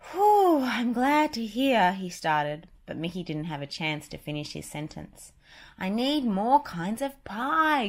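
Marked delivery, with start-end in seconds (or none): 0.1-1.9 high, loud relieved whew; relieved Mickey. Acted. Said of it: "breathed a sigh of relief". 5.8-7.9 slow, louder, higher cartoon Goofy; eager Goofy. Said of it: "Goofy interrupted".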